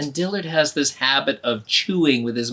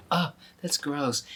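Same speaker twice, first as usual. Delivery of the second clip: softer disgusted inner thought; 5 dB quieter than usual. Acted. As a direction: think it, don't say it aloud. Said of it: "but inside she's going".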